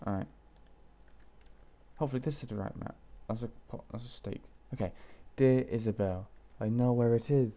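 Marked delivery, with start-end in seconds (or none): 5.4-7.5 louder, deliberate letter reading; letter read-aloud. Acted. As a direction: read the note out as its writer.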